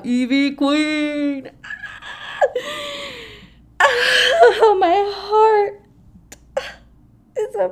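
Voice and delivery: high, loud gushing over a favourite star; overjoyed shriek of a fan; excited squeal. Real, not acted. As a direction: let the fan squeal out with a laugh in it. Fan gushing over surprise guest.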